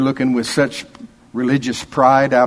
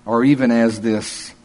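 disdain; 3 dB louder than usual. Acted. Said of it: "you can almost hear the disdain".

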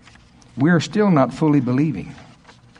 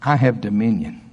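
call and response; 4 semitones lower than usual. Shown as a demonstration. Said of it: "I double dog dare you to say it with me".

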